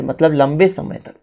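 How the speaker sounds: normal talking voice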